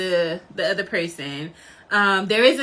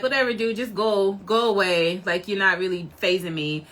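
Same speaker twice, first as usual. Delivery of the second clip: casual brush-off, sinking in pitch; unbothered dismissal; 3 semitones lower than usual. Retold or imitated. Fan acting out Shanks laughing off a challenger, dismissive. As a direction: wave him away, not fazed. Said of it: "Shanks kinda laughs it off".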